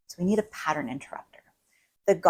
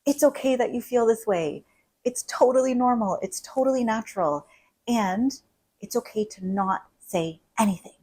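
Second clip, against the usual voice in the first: gentle reassuring voice, pitched higher; calming a client, lightly raised and kind; 4 semitones higher than usual. Pretend. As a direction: soothe a triggered listener gently. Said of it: "picture me telling you".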